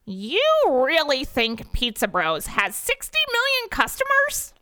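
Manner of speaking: mock him with the question; sarcastic. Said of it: "asks Dennis sarcastically".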